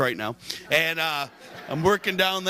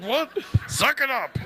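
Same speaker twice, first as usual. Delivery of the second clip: dismissive; 8 semitones higher than usual. Retold or imitated. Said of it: "I'm like".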